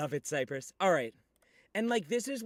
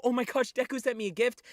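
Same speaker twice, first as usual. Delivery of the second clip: higher mock-delighted gasp; imagined delighted reaction; 6 semitones higher, faster than usual. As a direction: play the thrilled gift recipient. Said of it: "you're gonna go".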